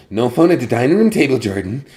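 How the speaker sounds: loud, high mock scolding; imitated scolding. Child policing Jordan's phone at dinner, imitated scolding. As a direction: call out the rule like a bossy kid. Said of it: "she'd be like".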